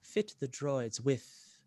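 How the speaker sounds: slow, measured order; lightly voiced villain giving orders; commanding villain. Villain ordering troops about the droids, measured command. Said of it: "and he says".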